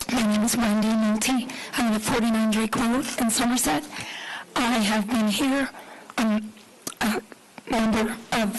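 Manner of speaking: hoarse, raspy speaking voice. Real, not acted. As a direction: talk through a raspy throat. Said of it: "I apologize for my raspy voice".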